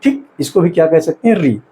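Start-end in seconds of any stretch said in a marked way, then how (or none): 1.4-1.6 री held for two beats; long vowel. Shown as a demonstration. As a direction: stretch the end of री to double length. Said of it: "इसके उच्चारण में दुगुना समय लग रहा है".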